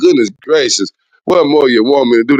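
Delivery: ordinary talk, nothing marked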